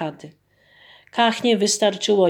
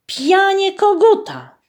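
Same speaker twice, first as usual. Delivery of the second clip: crowing rooster; 12 semitones higher, 5 dB louder than usual. A narrator's reading. Narrator imitates cockcrow.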